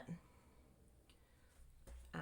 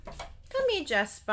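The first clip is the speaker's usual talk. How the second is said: high, loud call to the dog; calling out to Jasper in the next room; 11 semitones higher, 10 dB louder than usual. Real, not acted. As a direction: call him over, pitched up and loud. Calling her pet dog in.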